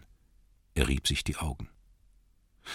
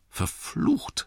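muttered curse. Acted. Bilbo curses to himself.

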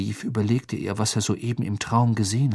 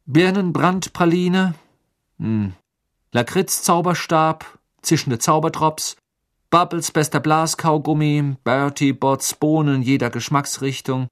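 eager guessing; 6 semitones higher, 5 dB louder than usual. Acted. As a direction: rattle off hopeful guesses. Harry guessing passwords eagerly.

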